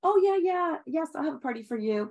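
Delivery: starts high then drops back; breezy high oh yeah, then a vague promise; put-off promise. Retold or imitated. Best friend stalling on the party, high and breezy. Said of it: "a couple months go by".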